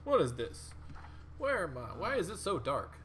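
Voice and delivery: bewildered questions, voice lifting; confused mummy. Acted. Game master voicing the mummy climbing from its sarcophagus, confused. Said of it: "Just like".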